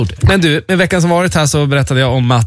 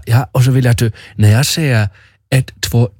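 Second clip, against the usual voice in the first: imitated passive-aggressive nurse. German nurse counting before a breath test, passive-aggressive. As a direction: count off with mock controlled menace in a German accent. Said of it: "hon var liksom så här passivt aggressiv".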